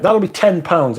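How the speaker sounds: a lightly voiced clerk asking for money; high shop clerk voice. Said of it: "they'd be like".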